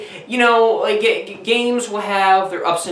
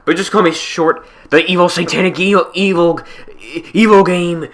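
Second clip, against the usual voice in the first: evil demon game voice; 5 dB louder than usual. Acted. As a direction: boom out the evil game's threats. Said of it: "I'm a demonic game possessed".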